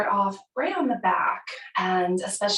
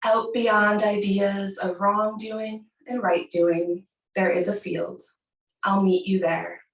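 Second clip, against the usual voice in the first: measured, unhurried poem recitation; poem reading. Acted. Yoga teacher opens class with a Rumi poem, measured recitation.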